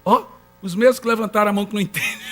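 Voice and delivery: ordinary delivery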